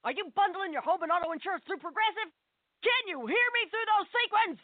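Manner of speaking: barked orders to a chorus line; drill instructor directing a musical. Acted. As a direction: yell like a sergeant running rehearsal. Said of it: "impression of a drill instructor directing a musical".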